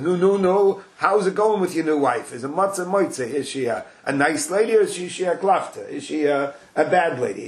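a lightly voiced busybody; nosy guy. Nosy man questions the newlywed, prying. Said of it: "comes over to him and says".

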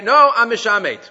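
hammed-up loud declaration; loud mock declaration. Shown as a demonstration. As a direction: belt it out high and loud. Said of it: "you don't have to scream that".

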